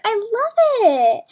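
laughing with delight. Real, not acted. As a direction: giggle through it happily.

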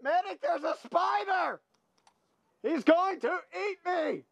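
high yelled call for help; panicked shout. Real, not acted. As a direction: yell for the medic, spooked. Calling for medic in panic.

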